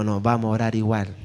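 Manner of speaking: low, soft, settled fatherly reply; calm insistence. Retold or imitated. Father telling his hurried daughter they will still pray, calmly insistent. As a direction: answer the protest quietly, without budging.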